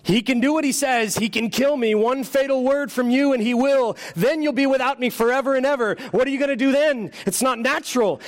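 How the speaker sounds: a sly lizard sweet-talking its master; wheedling lizard. Acted. Lizard tempting the ghost.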